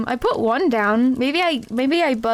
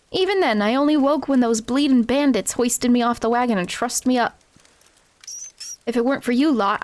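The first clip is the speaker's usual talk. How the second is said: Wimby voice. Acted. Wimby's street urchin voice.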